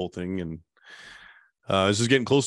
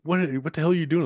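startled lady; 7 semitones higher, faster than usual. Retold or imitated. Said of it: "She's like".

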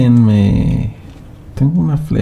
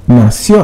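Nació with the accent on the final O; Nació, correcting the accent, loud on the O; stress on final O; 4 dB louder than usual. Shown as a demonstration. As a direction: lean on the last syllable of Nació. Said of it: "acento en la O".

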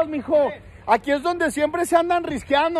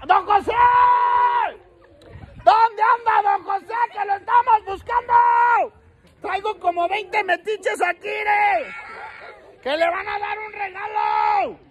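raised calling voice; shouting for don José with the whole group; shouting for him; 4 semitones higher than usual. Real, not acted. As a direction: shout it toward the house. Calling out for the neighbor.

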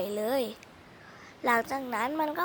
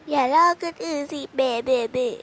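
mocking imitation; 7 dB louder than usual. Teasing friend mimics her scolding, mocking singsong imitation. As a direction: parrot her scolding back in a whiny mocking voice. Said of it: "ทำเสียงเรียนแบบซีน".

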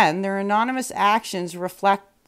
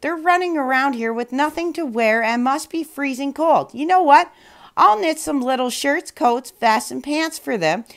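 higher, eager wife's voice; excited wife; 5 semitones higher than usual. Acted. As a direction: gush with a new idea. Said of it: "the shoemaker's wife said".

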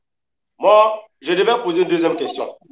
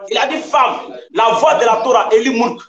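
insistent shout. Real, not acted. Insisting over opponent in debate.

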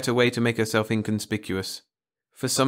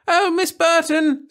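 high, loud, drawn-out call to the teacher; tattling scream; 8 dB louder, slower than usual. Acted. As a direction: scream it to tell on her. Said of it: "screamed Frances".

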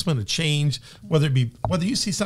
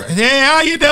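loud, high all-caps greeting; shouted caps-lock hello; capital letters hollering; 11 semitones higher, 9 dB louder than usual. Shown as a demonstration. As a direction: holler it like a text typed in caps. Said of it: "I didn't know that's hollering at somebody".

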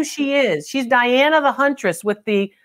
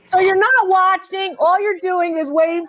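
mock offended; 5 semitones higher than usual. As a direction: tease them for not watching. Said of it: "I should be offended".

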